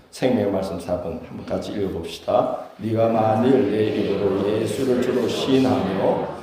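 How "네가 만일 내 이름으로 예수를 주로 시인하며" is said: slow, measured recitation of the verse; group scripture reading. Real, not acted. Pastor leads congregation reading Romans aloud, slow recitation. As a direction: read it aloud together, steady and slow.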